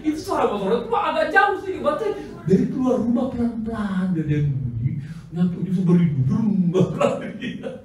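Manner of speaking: laughs through the story, pitch up; giggling as she tells it; laughing while telling. Real, not acted. Laughing as she tells the congregation about the motorbike.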